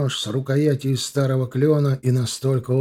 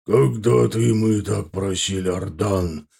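firm; 4 semitones lower than usual. A narrator's reading. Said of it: "твёрдо ответил орк".

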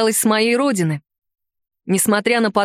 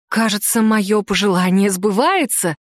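exhaled words. Acted. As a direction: breathe it out, moved. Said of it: "выдохнула мама".

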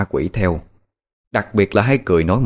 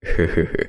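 sly evil chuckle; 5 semitones lower than usual. Acted. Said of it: "sau đó cười gian xảo".

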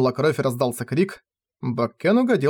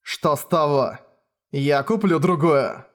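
cold father; slower than usual. Acted. Cold father dismisses daughter.

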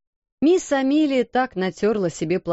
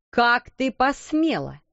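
angry cry; 3 semitones higher, slower than usual. Acted. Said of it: "вскричала она".

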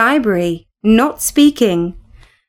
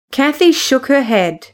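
ordinary delivery, nothing marked

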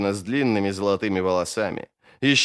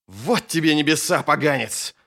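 angry curse; 4 semitones higher than usual. Acted. Fighter cursing the eater as he strikes its neck, angry. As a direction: curse the foe as you strike.

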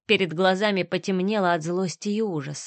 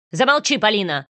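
sharp rebuke; 4 dB louder than usual. Acted. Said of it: "Резко одёрнул её Артём".

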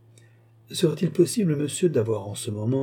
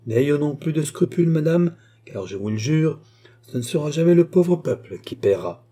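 "jamais le pauvre peuple" leaned on, pitched higher; weighty, higher-pitched stress through "n'ayons non plus de scrupules"; emphasis on every word; 3 semitones higher than usual. A narrator's reading. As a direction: press each word of "je vous le jure" firmly, with a sinister smile. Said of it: "en appuyant avec son sourire sinistre sur chacune de ses paroles".

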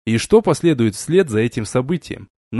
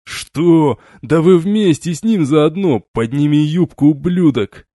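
louder, raging yell; furious shout; 4 semitones higher, 4 dB louder than usual. A narrator's reading. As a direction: bellow at her in fury. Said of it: "закричал в бешенстве". (кричит в бешенстве)

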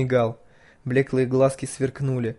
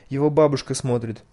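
ordinary delivery, nothing marked

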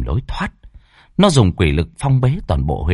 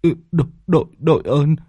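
tearful thanks; 7 semitones higher than usual. Acted. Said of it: "miệng mếu máo".

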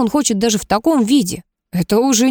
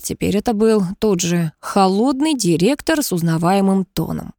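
ordinary delivery, nothing marked

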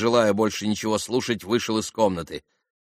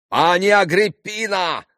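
high, loud, drawn-out appeal; shouting; 11 semitones higher, 7 dB louder than usual. A narrator's reading. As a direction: shout her name in offended protest. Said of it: "закричал пан". (возмущённый протяжный крик)

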